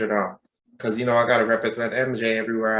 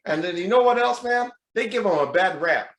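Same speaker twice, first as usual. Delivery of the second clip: higher-pitched Southern confiding; Southern accent; 8 semitones higher than usual. Retold or imitated. Gym stranger defends his idol, Southern accent. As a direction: complain in an imitated Southern accent. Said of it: "with Southern accent".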